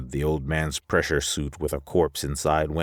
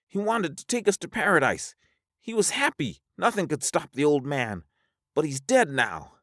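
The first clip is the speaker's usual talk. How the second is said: very high character voice, settling a little at the end; high-voiced Alvar, mournful; 13 semitones higher than usual. Alvar mourning the old man, high-pitched character voice.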